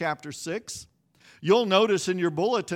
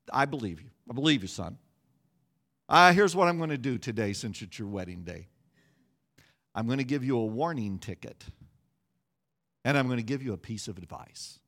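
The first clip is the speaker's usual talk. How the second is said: state trooper; 7 semitones lower, faster than usual. Retold or imitated. State trooper voiced in story.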